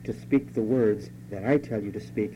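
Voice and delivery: a loving warning; cautious and loving. Acted. Preacher voicing God cautiously and lovingly to his people. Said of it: "very cautiously and very lovingly says".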